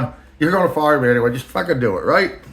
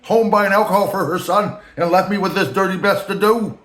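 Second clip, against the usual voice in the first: higher mock boss voice, slowing at the end; Rand's voice; 6 semitones higher than usual. The boss describing his looks, in a high mocking voice. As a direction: lampoon the boss rambling about himself. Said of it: "I'm just filling in voice".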